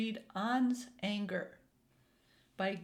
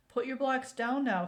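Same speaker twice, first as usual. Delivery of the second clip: louder, higher firm grandfather; firm command; 4 semitones higher, 5 dB louder than usual. A narrator's reading. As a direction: tell him firmly to stop. Grandfather firmly calling An.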